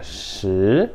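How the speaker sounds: "shi" starting low and rising; second tone. Shown as a demonstration. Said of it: "começa baixo e você vai subindo".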